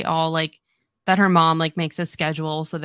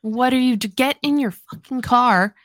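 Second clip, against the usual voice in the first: exasperated scolding; 5 semitones higher, 4 dB louder than usual. Retold or imitated. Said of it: "I kept being like".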